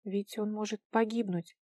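ordinary delivery, nothing marked

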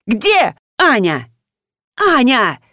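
slow, shouted calls for the maid; raging call. A narrator's reading. Master storms, calling for servant Anya. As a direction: bellow for the housekeeper. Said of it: "бушевал хозяин".

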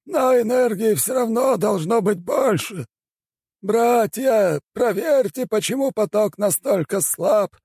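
put-on a strange high old shaman weighing the spell; old shaman elder. A narrator's reading.

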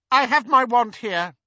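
loud, high, icy reply; cold. A narrator's reading. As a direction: put him in his place coldly. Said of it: "said Hermione coldly".

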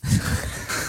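soft put-on voiceover chuckle; fake laugh. Shown as a demonstration. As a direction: fake a quiet laugh before the tagline. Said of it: "with the laugh".

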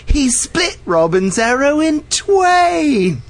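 high, slow, theatrical announcer; movie archer voice. Retold or imitated. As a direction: proclaim it grandly like a herald. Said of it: "and the guy goes".

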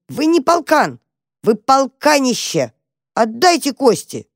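high, indignant little mouse shout. A narrator's reading. Mouse Tam shouting at the dog. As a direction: yell it at the big dog with all you have. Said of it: "а потом крикнул".

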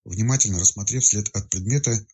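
usual speaking voice

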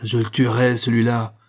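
a touch of clenched menace; through clenched teeth. Acted. Marin threatening to kill the man, teeth clenched. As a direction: vow it through gritted teeth. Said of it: "en serrant les dents".

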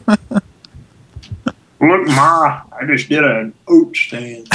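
put-on high, laughing kid voice; mock kid voice. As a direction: brag to Ma like a child. Kid parody again.

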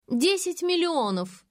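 brazen demand. Acted. Faina names an absurd price.

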